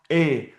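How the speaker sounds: A as an "ay" vowel; E read as A. Shown as a demonstration. Teacher explaining E to student, A as "ay". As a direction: say A like the vowel in mayonnaise's end. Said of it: "how the E is pronounced".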